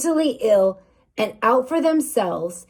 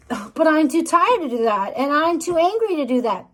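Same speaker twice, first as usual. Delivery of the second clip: higher-pitched, mildly whiny protest; mock whining excuse; 4 semitones higher than usual. Listener objecting to the pep talk, mock whine. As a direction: imitate someone making weary excuses.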